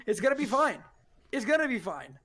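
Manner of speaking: high, then settling to calm; soothing a crying friend, fading down; reassuring. Acted. Brad soothing crying Mac, soothing then settling.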